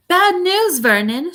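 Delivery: high-pitched fretful British woman; worried aunt in a British accent; angry and worried. A narrator's reading. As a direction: break bad news, pitched high then falling. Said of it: "looking both angry and worried".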